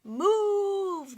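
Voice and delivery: high, loud yell; shouted. Acted. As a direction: bark the order at the boy. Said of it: "they shouted".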